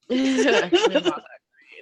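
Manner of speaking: high breathy confession; sheepish whisper. Retold or imitated. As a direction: admit it under your breath. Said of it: "And she's like".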